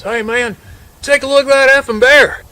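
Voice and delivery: high, urgent call-out; acted alarmed hunter, rising to a loud yell; West Virginia hunter. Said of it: "Hunter goes, he's from West Virginia".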